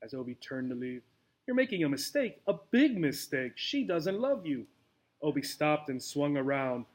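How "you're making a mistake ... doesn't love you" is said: put-on desperate old mouse. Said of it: "sounding desperate".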